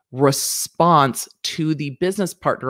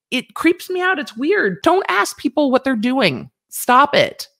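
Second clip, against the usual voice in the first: real creeped-out outburst; 10 semitones higher than usual. Real, not acted. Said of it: "own disgust".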